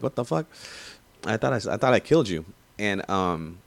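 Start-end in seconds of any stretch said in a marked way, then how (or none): 0.0-2.5 stunned disbelief. Retold or imitated. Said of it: "You're like".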